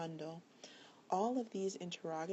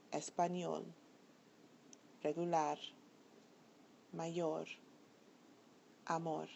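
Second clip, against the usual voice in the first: ÑOL, LAR, YOR, MOR stressed in Español, regular, mayor, amor; last-syllable stress. Shown as a demonstration. Teacher says listen carefully, stressing the last syllable of Español, regular, mayor, amor. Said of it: "the bolded syllable is the one that receives".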